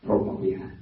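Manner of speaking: Brahma Vihara with Brahma as 'Broh-ma'; Cambodian pronunciation. Shown as a demonstration. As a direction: round the first vowel of Brahma to 'oh'. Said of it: "In Cambodia".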